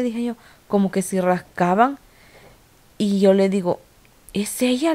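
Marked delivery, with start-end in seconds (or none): 4.3-4.9 higher-pitched questioning, retold; pregunta expectante. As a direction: relive asking if it's really her. Pregunta inquieta al esposo, retold. (pregunta expectante, en tono más agudo)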